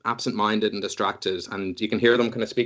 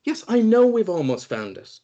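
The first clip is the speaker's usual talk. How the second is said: distracted Rua; 11 semitones higher than usual. Rua scolds an invisible Trolltunga, high and distracted. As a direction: speak to someone unseen. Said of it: "And goes".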